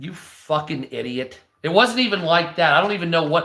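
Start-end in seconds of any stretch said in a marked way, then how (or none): 0.0-1.4 low, hushed, displeased, unhappy scolding. Speaker acts out how Jesus reacted to him, mock-unhappy Jesus scolding. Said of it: "You can tell Jesus wasn't happy".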